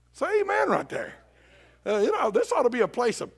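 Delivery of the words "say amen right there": calling for amen. Real, not acted.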